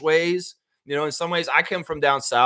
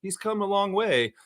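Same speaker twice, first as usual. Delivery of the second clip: gently put-on proud praise; supportive reporter. Imagined reporter praising Scott on the media, mildly supportive. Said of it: "like a supportive reporter that's saying".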